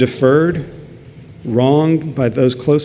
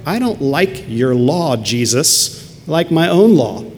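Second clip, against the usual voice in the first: proud defiance; 2 semitones higher, slower than usual. Retold or imitated. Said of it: "You know who the proud are?".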